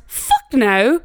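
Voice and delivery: mimicked British-sounding refusal; British accent. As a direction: say it with a slight British lilt. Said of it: "sounded British".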